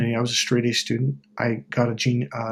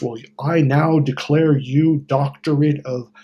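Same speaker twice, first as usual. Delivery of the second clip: wizard's changed voice; 2 semitones higher, slower than usual. Retold or imitated. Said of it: "the wizard changes his voice".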